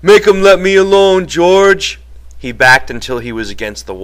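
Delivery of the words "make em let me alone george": high, loud frightened plea; terrified cry. A narrator's reading. Lenny begs George to stop the beating, terrified cry. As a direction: plead for rescue, crying out high and loud. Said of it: "he cried".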